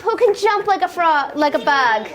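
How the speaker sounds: big bright high-pitched jump!; excited jump. Acted. Teacher cueing toddlers to jump, excited high call. Story climax, kids jump.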